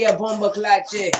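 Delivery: a quick Jamaican exclamation; Jamaican accent. Acted. Half Jamaican bloke showing off his Jamaican accent. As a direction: drop into a Jamaican accent for the curse. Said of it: "go in and out of an accent".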